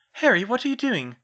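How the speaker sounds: high, loud puzzled demand; bewildered question. A narrator's reading. Hermione to Harry covering his ears, high loud bewilderment.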